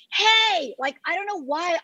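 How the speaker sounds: a sharp high "Hey" to a nosy neighbour; mock confrontational call. Retelling confronting a spying boat, a mock high call. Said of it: "I will personally go over there and be like".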